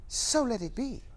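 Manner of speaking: measured pronouncement, SO held firm; solemn declaration. Acted. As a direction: declare it like a closing decree. First of a closing refrain.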